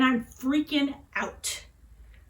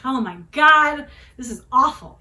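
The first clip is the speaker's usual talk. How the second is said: dramatic wail; 2 semitones higher, 9 dB louder than usual. Retold or imitated. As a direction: drag out the teen's horror, big and loud. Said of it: "and I'm like".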